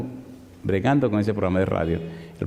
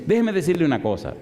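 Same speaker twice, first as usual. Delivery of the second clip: higher, firm Déjeme lead-in; defiant again; 5 semitones higher than usual. Retold or imitated. The professor turning combative again, defiant. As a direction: climb back on her high horse. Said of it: "se montó otra vez".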